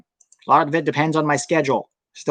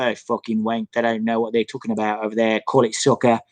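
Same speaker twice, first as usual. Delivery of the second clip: mock British bloke; 4 semitones lower than usual. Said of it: "typical British guy's attitude".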